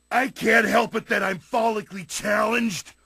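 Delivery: unmasked villain shouting in protest; indignant shout. Acted. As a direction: yell it defensively, caught out.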